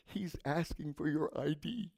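retold whisper in someone's ear. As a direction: drop to a hushed, confidential stage whisper. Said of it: "I whisper in her ear".

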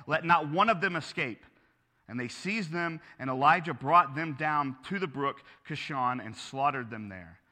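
steady, measured Bible reading; scripture reading. Acted. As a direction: read the passage aloud to the congregation. Pastor reads scripture aloud.

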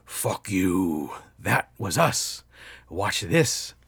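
slow, crunching machine voice; robot trash compactor. Retold or imitated. Robot mocking the sleeper's small win, slow mechanical menace. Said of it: "the fucking robot, fucking a trash compactor, says".

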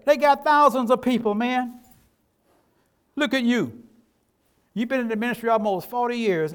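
a preacher voicing the devil's sneer; mocking devil voice. Pastor voicing the devil mocking his small church, mocking. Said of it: "He said".

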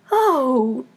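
drawn-out Queen's wail; slow, distressed moan; despairing cry. A narrator's reading. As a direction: plead very slowly, stretching each word. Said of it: "cried the poor Queen".

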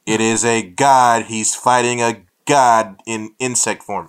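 loud, slow, booming declaration; loud hype. Real, not acted. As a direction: announce it like an epic trailer. Hyping the next Shazam villain.

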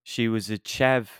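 slow attempted British, sounding Australian; British accent gone Australian. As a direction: aim for British, land in Australian. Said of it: "No, that's, uh, that's Australian again".

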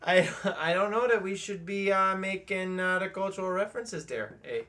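lightly mimicked Canadian accent; hesitant mock-Canadian with "eh" tacked on. Co-host joking about cultural references, mild mock Canadian accent. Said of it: "I'm just trying to do the accent".

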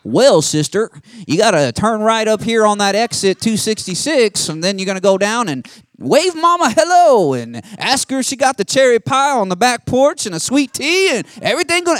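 mock Southern country accent, high and loud; country dude. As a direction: play a folksy Southern sat-nav voice giving directions. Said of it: "some country dude comes on and says".

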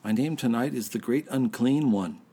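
slurred, tipsy announcement. Real, not acted. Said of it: "in a less inebriated state of mind".

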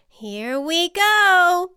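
drawn-out, rising call; high, loud, stretched launch cry; bracing for take-off. A narrator's reading. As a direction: stretch it out as you leap. Butterfly takes off.

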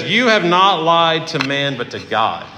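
slow, calm rebuke without anger. Retold or imitated. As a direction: say it gently but firmly, no yelling. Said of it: "And he probably said that calmly".

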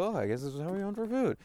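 a lightly voiced cub figuring it out; bear cub realizing. Bear cub copying its mother, lightly voiced realization. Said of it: "and they go".

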